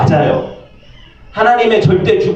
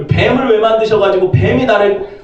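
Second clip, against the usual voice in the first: higher whine, 뱀을 stressed, falling; blaming complaint; 5 semitones higher than usual. Acted. Adam blaming God again, higher whiny gripe. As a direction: repeat the gripe, just as petulant.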